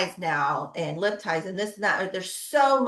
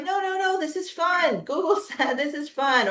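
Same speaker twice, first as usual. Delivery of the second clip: mock cheerful insistence; 7 semitones higher than usual. Mom insisting to crying baby.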